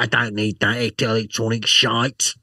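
mock tough biker. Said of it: "I'm like".

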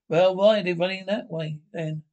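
loud, exasperated question; indignant shout. Acted. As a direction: demand it loudly. Officer indignant at fleeing troops.

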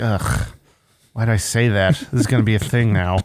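low, weary groan of regret; groaning inner voice. Retold or imitated. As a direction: mutter it like you regret it. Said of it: "I was just like".

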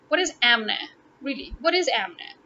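"Amna" with both a's as in cat; mocked mispronunciation. Questioning people who say it wrong, mimicked mispronunciation. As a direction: echo the flat-vowelled "Amna" in disbelief. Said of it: "you have to say Amna".

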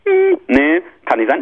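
high doubtful "hm, nee"; mock Google voice. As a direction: sceptical voice for Google. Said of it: "sagt Google D E".

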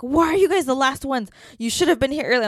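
exasperated imitation of a rude agent; imitated scolding. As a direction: retell her telling you off like a child. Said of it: "She was speaking in that tone".

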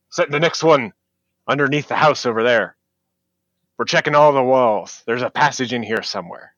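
a lightly voiced gruff dwarf barking orders; dwarf foreman shouting orders to his crew. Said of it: "a dwarf shouting some kind of gruff orders".

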